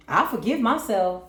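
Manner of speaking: unconvincing self-forgiveness. Shown as a demonstration. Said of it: "but you really don't".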